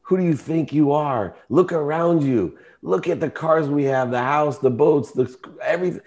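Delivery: retold screaming. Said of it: "I screamed at her".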